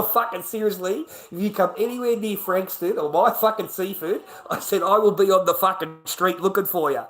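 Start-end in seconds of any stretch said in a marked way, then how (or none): 0.0-4.2 higher, louder warning; retold threat. Retelling threats he made. 4.8-7.0 loud, high-pitched threat retold before laughing. Retelling threats he made.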